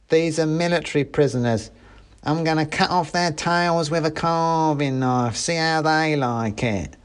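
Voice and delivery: high little soldier making big threats; threatening mouse soldier. A narrator's reading.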